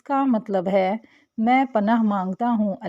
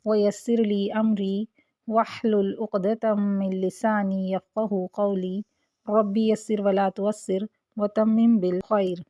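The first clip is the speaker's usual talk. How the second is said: prayer recitation; slower than usual. Real, not acted. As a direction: recite the dua calmly before class. Opening dua recited. (دعا کی دھیمی تلاوت)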